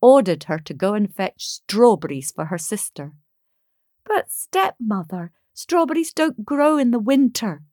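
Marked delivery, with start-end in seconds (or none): 4.1-7.6 mild, higher-pitched protest. Acted. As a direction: object like an upset stepdaughter. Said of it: "protested Maruschka".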